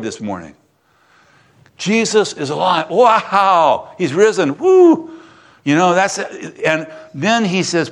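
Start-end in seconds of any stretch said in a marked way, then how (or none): 2.9-3.9 excited wow. Real, not acted. Preacher celebrates Jesus alive. 4.6-5.1 high, loud celebratory "Woo!"; joyful whoop. Real, not acted. Preacher cheers he's risen.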